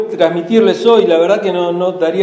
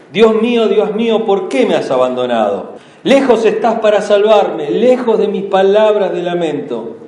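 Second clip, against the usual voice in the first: scripture reading. Acted. Pastor reading the psalm to the congregation, solemn lament. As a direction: read the psalm as Christ's lament.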